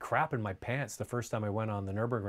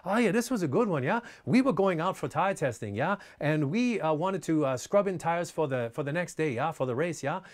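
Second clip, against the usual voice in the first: lightly put-on German racer, higher, each phrase tagged with a rising yeah?; a fond, playful take on a charismatic old racing driver, pitched up; playfully mimicking the racer's quirky way of talking, a little higher; imitating Hans Stuck; 4 semitones higher than usual. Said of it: "really cute affectation the way he talks".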